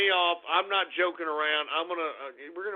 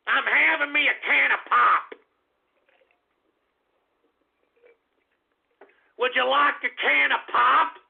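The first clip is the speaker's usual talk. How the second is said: mock northern accent; 4 semitones higher, 3 dB louder than usual. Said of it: "what do you idiots out there up north say".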